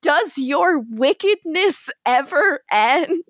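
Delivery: dramatic Rebecca line. Retold or imitated. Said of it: "she says to him literally".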